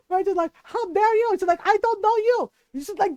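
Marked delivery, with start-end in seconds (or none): 0.6-1.3 retold indignant yell, raised pitch. Mom yelling at the purse snatcher, indignant. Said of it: "And she's yelling at him". 1.7-2.5 retold indignant yell, raised pitch. Mom yelling at the purse snatcher, indignant. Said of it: "And she's yelling at him".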